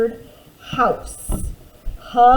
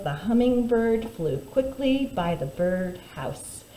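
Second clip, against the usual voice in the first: slow recap; 4 dB quieter, slower than usual. Shown as a demonstration. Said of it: "Again, the sentence was".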